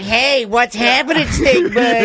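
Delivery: lightly voiced cartoon bully. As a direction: taunt like a schoolyard bully. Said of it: "the old, like".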